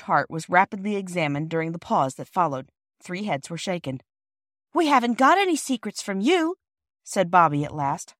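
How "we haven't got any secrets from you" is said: put-on protesting child. Child pleads with offended porter.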